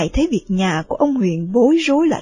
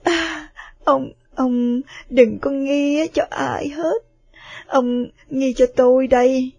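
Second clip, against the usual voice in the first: crying confession; 4 dB louder than usual. Acted. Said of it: "và khóc và nói".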